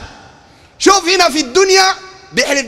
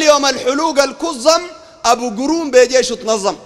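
rhythmic quoted verse; measured recital of an ode; poem recital; 2 semitones higher than usual. Acted. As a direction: recite in metre, landing on the rhyme. Reciting Sufi poem he criticises.

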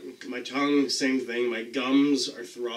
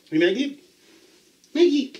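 high, loud call across the room; calling Maggie from across the house; calling the dog; 13 semitones higher, 6 dB louder than usual. Real, not acted. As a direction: call her name up high.

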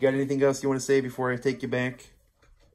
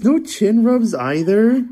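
laughing; 9 semitones higher, 5 dB louder, slower than usual. Real, not acted. Cat refuses chin rubs.

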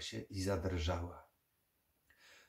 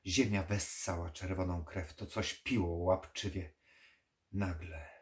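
plain reading voice

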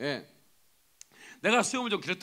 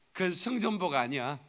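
normal talking voice

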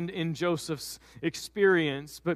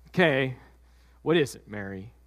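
panicking Joseph; 6 semitones lower than usual. Acted. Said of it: "he's panicking".

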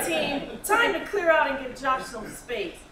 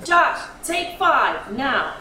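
firm order; 7 dB louder, slower than usual. Acted. Boss orders break.

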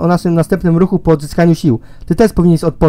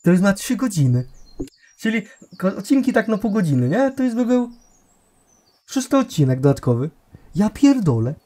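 softer, half-voiced remark off to the side; quiet aside; 3 semitones higher, 7 dB quieter than usual. Real, not acted. Streamer mutters to himself about the long session, quiet aside. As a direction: say it under your breath.

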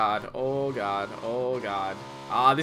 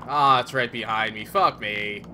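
scared horror game streamer; 4 semitones lower than usual. Real, not acted. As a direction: yell in fright, urging. Chased by vehicle, panics.

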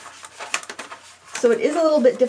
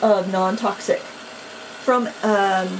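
stumbling over words. Real, not acted. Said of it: "if I sound kinda numb, but stumbly".

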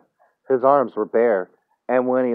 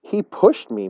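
slow, high, hushed disbelief; small, halting voice of stunned realisation; amazed murmur; 8 semitones higher, slower than usual. A narrator's reading. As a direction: stammer it out as the truth dawns. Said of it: "murmured Tom, amazed".

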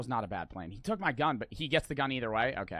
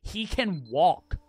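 drawn-out exasperation; 2 semitones higher, slower than usual. Real, not acted. Exasperated at slow enemy.

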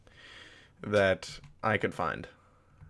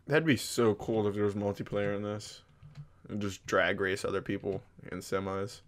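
sniffling; 3 dB quieter than usual. Real, not acted. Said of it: "Sorry I keep sniffing".

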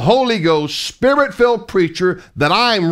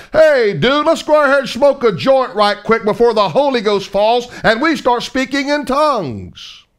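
mock stoner; 5 semitones higher than usual. Mocking disciples as potheads.

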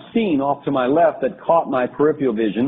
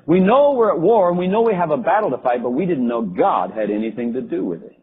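sarcastic retort. Retold or imitated. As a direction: retell a general's scornful comeback. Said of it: "looked up Charles very sarcastically".

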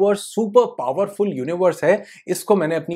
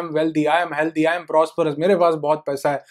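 hollow affirmation. Retold or imitated. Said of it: "ये बोल रहा है".

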